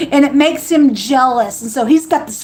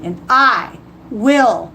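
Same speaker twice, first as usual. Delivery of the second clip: slow, solemn reading of scripture; measured voice of God quoted; slower than usual. Acted. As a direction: read it like holy writ. Reading God's words aloud.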